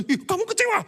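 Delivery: high, shocked gasp of a judgmental churchgoer, then loud scolding. Retold or imitated. Judgmental friend scolding a disappointed member, mock shocked scolding.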